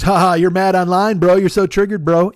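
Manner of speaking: jeering imitation of an online bro; mocking troll. Online troll teasing someone for being mad, mock jeering. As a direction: taunt them with a fake ha-ha.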